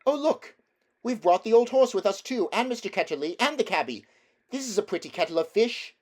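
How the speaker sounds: high, fast, surprised exclamation; crying out. A narrator's reading. Polly seeing who came through the pool, surprised high cry. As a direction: blurt it out in surprise. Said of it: "Polly cried out".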